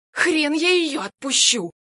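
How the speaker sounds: loud, high, slow hoarse snarl; hoarse growl. Acted. Armed woman refuses the husband, a hoarse growl. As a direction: spit it out in a rasping growl. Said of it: "сипло рычит Амалия".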